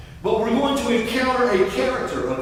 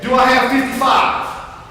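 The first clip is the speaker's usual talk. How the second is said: rising, louder bidding calls; auctioneer; 2 semitones higher, 6 dB louder than usual. Pretend. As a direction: call the numbers like an auction. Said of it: "Feel like an auctioneer".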